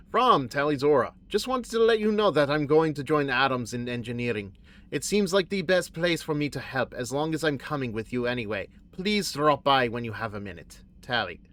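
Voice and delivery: barely voiced Tali reading a note; a faint, botched stab at Tali; lightly voiced alien engineer; terrible Tali impersonation. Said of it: "that was a terrible Tali impersonation".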